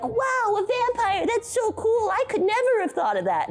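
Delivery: put-on high gushing girlish voice; Ellie voice. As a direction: squeal it like an impressed girl. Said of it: "She'll be all like".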